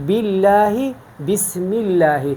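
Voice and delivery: slow بسم اللہ with a light, thin lam in اللہ; اللہ after the kasra said thin; thin tarqeeq. Shown as a demonstration. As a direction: recite بسم اللہ, باللہ and بامر اللہ with the lam kept light. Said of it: "فرق کو واضح محسوس کرتے ہیں".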